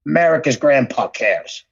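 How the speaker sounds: low mock ad tagline; Tom Hanks. Film star closing the president's commercial, mock ad voice. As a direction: sign off like a political commercial, lightly acted. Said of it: "Tom Hanks does a commercial".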